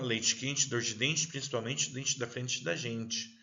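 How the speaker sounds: São Paulo accent, "dente" said as "dentchi" with a ch sound; São Paulo accent, every "te" and "de" turned to "tchi" and "dji". Shown as a demonstration. Teacher demoing the São Paulo accent for the class. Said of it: "lá em São Paulo já fala".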